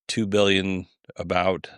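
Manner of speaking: usual speaking voice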